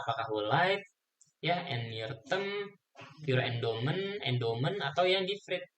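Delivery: choppy, cutting out connection; breaking up space radio. Real, not acted. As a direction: voice dropping out over a bad line. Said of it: "suaranya putus-putus".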